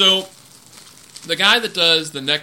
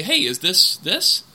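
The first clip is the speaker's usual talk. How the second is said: slow, deliberate asking; 4 semitones higher, much slower than usual. Retold or imitated. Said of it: "go to Randy and neca and say".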